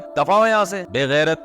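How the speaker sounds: mock rough king dismissing his son; hammed-up royal scolding; rude king. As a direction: snap it out like an irritated king. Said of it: "بادشاہ کبھی شہزادے سے ایسے بات کرتا ہے".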